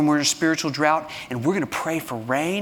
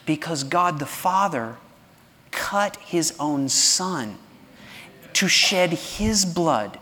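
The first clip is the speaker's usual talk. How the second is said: slow, softer reassuring plea; tender appeal; 3 dB quieter, slower than usual. Real, not acted. Pastor speaks to those who self-harm, slow tender reassurance. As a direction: comfort the hurting listener gently.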